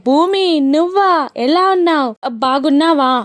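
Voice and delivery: put-on thrilled to hear an old friend; surprised delight. Friend surprised by Bhumi's call. (ఆశ్చర్యం, సంతోషంతో పలకరింపు)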